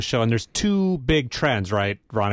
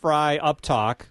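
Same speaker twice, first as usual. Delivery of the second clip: up fry; slower than usual. Shown as a demonstration. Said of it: "You have to sound like a chicken".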